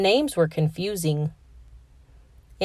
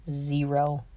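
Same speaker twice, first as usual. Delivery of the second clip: glum; 4 semitones lower, 8 dB quieter than usual. A narrator's reading. Narrator admits he read no books.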